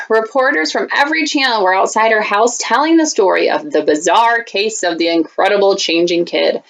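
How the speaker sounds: put-on lively read-aloud for kids; story reading. Teacher reading a picture book to students, storytime voice.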